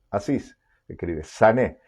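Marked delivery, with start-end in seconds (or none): 1.2-1.8 sané with the weight on the last syllable, the é; sané, accented on its closing é; stress on final E. Shown as a demonstration. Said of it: "con acento en la E final".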